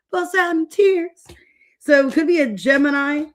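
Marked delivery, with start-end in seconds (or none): 0.1-1.2 drawn-out, higher mock wail on tears; White Chicks quote. Reader quoting White Chicks about crying, mock wail. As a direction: ham up the crying line slowly. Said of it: "She's like".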